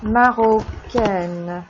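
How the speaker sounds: marocaine stretched slowly, the final -aine clear; slow model pronunciation. Shown as a demonstration. Teacher modeling the feminine marocaine slowly. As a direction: draw out marocaine for the class.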